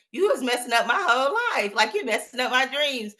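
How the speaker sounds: laughing mock protest. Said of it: "And it was so funny".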